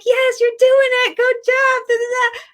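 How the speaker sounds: mother's friends cheering her on. Retold or imitated. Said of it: "They're like".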